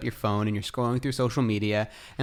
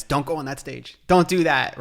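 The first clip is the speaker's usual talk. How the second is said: body's warning; 4 semitones higher, 3 dB louder than usual. Retold or imitated. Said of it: "our body's telling us".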